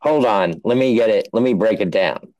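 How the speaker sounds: a hint of a broad Aussie bloke; Aussie Dave voice. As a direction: do a bad Australian bloke accent. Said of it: "This is Aussie Dave".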